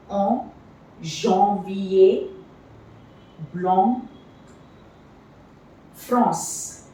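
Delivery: "En", "janvier", "blanc", "France" with the nasal on sound and the final S silent; teacher sounding out nasal words; nasal AN demo. Shown as a demonstration. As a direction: model the nasal vowel in each word. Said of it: "It's pronounced as on".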